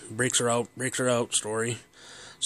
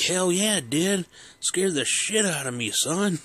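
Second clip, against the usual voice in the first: father laughing off his own scare; emphatic dad; 7 semitones higher than usual. Retold or imitated. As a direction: own up with gusto. Dad admits fright, laughing.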